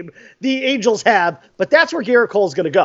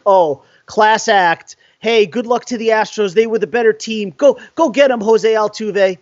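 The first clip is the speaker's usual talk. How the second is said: sarcastic mock congratulations. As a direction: fake graciousness, dripping with sarcasm. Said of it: "I am so tired of that shit".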